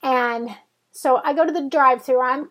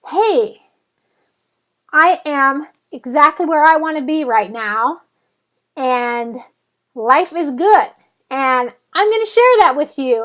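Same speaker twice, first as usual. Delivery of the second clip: upbeat cheer; 5 dB louder than usual. Retold or imitated. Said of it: "makes me feel like".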